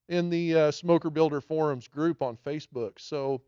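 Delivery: slightly out of breath from walking; breathing hard between words. Real, not acted. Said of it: "I'm kinda out of breath a little bit".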